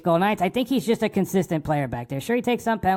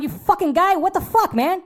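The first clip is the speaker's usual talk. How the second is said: imitating a shrill yell at the fan, much higher; hammed-up outrage, voice cracking up high; mock yell; 12 semitones higher than usual. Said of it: "I'm going".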